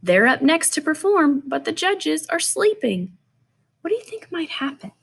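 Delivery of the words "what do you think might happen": quick hushed whisper; suspense whisper. Real, not acted. Teacher whispering to the children about the sleeping judges. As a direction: whisper the question to build suspense. Teacher hushing kids before reveal.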